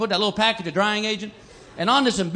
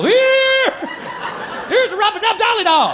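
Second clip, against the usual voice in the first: hammed-up panic shouting at a drowning man; frantic rescuer; 7 semitones higher, slower than usual. Idiot throwing a doll to a drowning man, high mock yell. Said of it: "some guy drowning in the river and go".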